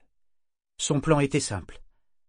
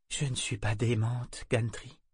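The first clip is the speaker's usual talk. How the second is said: calm; 3 dB quieter than usual. Acted. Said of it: "dit-elle d'une voix calme".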